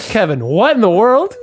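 startled. A narrator's reading. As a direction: jump back and blurt it out.

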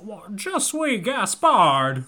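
slow, hammed-up French accent. Co-host doing a mock French accent as Gaspard. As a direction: stretch out a bad French accent, slowly. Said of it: "hear him do a French accent".

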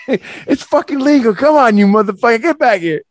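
mock call out. Calling after fleeing friend.

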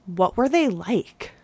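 slow, imitated deadpan question; straight-faced question. Classmate asking about psychiatric patients, straight-faced. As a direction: ask it slowly, imitating someone dead serious. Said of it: "dead in the eyes with this, like, straight face".

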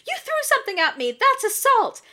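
high, loud, fast indignant shout; mock outraged yell. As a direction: yell it like you've been wronged. Lisa accusing Kiki of assault.

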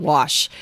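"wash" said plainly without any r; correct wash. Shown as a demonstration. Showing the right way to say "wash". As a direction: give "wash" its standard sound. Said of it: "instead of".

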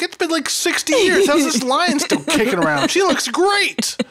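high squeaky incredulous voice; high mock voice. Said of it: "when I'm like".

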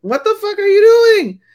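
very high, loud imitation of outrage; shrieked, hammed-up disbelief; mock shocked yell. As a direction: burst in yelling, pitch shooting way up. Acted bursting in through slammed door.

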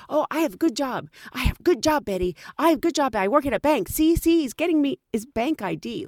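mock boastful broken English; lightly voiced bragging driver; imitating taxi driver. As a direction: show off his job. Voicing the driver.

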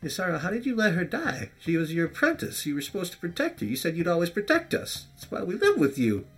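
high, loud, breaking cry at her mentor; tearful accusation. Acted. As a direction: shout it through tears. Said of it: "as tears start to form".

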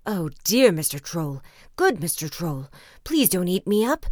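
loud pleading in a middling goat voice; frightened middle-sized goat. A narrator's reading. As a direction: beg the troll for mercy, not squeaky. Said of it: "was in great fright".

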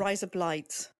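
copying a put-on Aussie accent; mock Australian vowels. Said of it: "Australian accent".

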